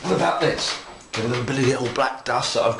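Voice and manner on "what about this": mock excitement. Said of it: "And then you go".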